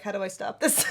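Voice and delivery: half-crying in burning pain; pained whimper. Real, not acted. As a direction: whine it through the sting. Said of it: "citrus would make my armpits burn".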